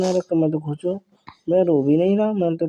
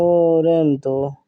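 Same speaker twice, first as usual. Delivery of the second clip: drawn-out scoff; 5 dB louder, much slower than usual. Acted. Dismissing her claim as joke.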